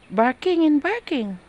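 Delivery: high, slow mock voice of the boss; mimicking the boss's complaint. Imitating the boss grumbling about the barking dogs. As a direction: drag it out in a high mock whine.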